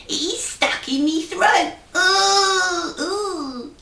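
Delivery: a hint of a choking goose; hushed goose. Goose tells the queen the ring is stuck in its throat. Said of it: "hushed the goose".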